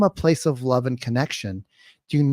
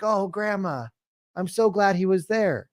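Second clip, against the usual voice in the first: tender sympathy; 5 semitones higher than usual. Acted. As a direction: soothe grandma with gentle relief. Sympathetic reply to lost grandma.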